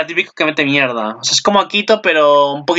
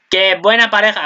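delighted exclamation; 5 semitones higher than usual. Real, not acted. Vlogger gushing at the anime couple on screen, excited. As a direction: gush over the cute pair. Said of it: "Míralo, qué buena pareja hacen".

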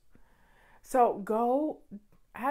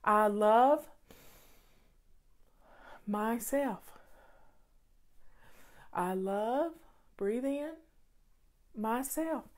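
slow, softening self-affirmation with a pause to breathe; meditative affirmation; slower than usual. Shown as a demonstration. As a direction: murmur it like a mantra, letting each word settle. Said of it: "I would meditate on these words".

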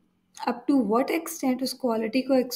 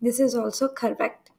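slow emphasis; much slower than usual. Shown as a demonstration. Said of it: "teacher stresses the correct form".

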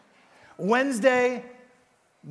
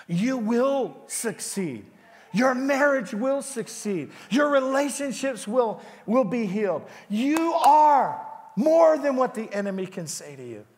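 rising declaration; 5 semitones higher, 3 dB louder than usual. Real, not acted. Preacher declaring over the congregation.

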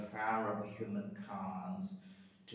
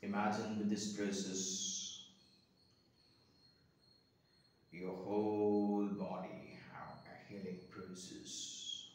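guided meditation. Real, not acted. Guiding listeners to observe breath and body, guided meditation. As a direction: lead the listener gently through breath and body.

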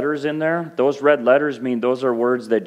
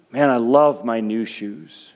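slow, lower, gushing over new shoes; mock gushing; 4 semitones lower than usual. Shown as a demonstration. Pastor mocking empty love, slow and low gushing. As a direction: play the shallow love of things. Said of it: "we take this word love".

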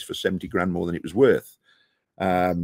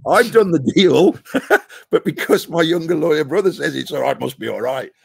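incredulous mockery; 7 semitones higher, 6 dB louder than usual. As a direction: squeal it in exasperated disbelief. Mocking his father's logic.

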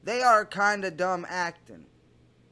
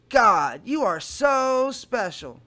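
lightly put-on girl's voice, slow; hint of a swooning teen girl; Kayla voice; 4 dB louder, slower than usual. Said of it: "I'm doing my Kayla voice".

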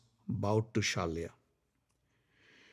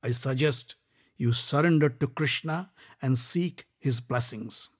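louder, grave lecture; Shalya's warning; 4 semitones higher, 5 dB louder than usual. Acted. Shalya warning Karna to surrender, grave. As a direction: warn him gravely.

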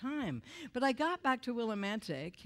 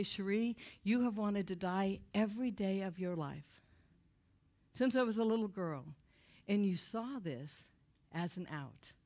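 tender divine voice. Retold or imitated. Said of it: "I heard the Holy Spirit say".

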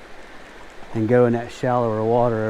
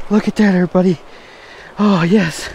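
excited; 5 semitones higher, 3 dB louder than usual. Real, not acted. Showing off catch to viewers.

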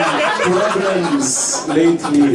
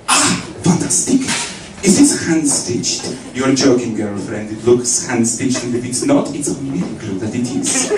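fashion designer gush; 4 semitones lower than usual. Retold or imitated. Playing a fashion designer praising the girlfriend's dress, gushing. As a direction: fawn over the dress like a stylist.

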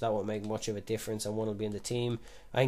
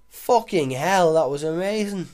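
higher, louder, slow amazed yell; excited yell; 6 semitones higher, 10 dB louder, slower than usual. Real, not acted. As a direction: still buzzing over the goal. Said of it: "such a bellend for doing that voice".

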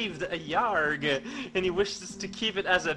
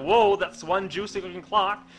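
greedy, drooling delight over food; voicing a hungry space alligator; 3 semitones higher, 5 dB louder than usual. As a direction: relish the juicy clock. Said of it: "He's like".

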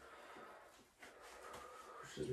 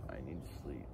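lower, drowsier repeat; sleepy, low mumble; 9 semitones lower, 9 dB quieter, much faster than usual. Real, not acted. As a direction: drag it out half asleep. Repeated tired answer.

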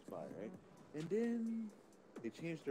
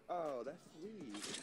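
motherly voice; 4 semitones higher, 4 dB quieter, much slower than usual. Retold or imitated. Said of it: "good Chishu voice".

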